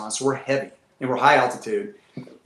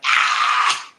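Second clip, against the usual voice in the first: imitated panicked scream; unvoiced mock scream like a little kid; 3 semitones lower than usual. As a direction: scream like a frightened kid, acted out. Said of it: "like a little kid".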